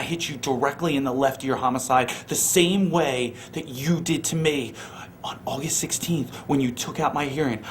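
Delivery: low, soft threatening whisper; menacing whisper. Acted. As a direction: whisper the threat close to the mic. Menacing wrestling promo threat.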